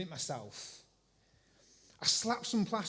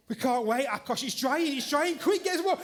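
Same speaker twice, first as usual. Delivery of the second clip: much higher, louder rushed pleading; frantic urging; 7 semitones higher, 7 dB louder than usual. Retold or imitated. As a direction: yell at your helper to hurry, laughing at the end. Urging Akash, plaster drying.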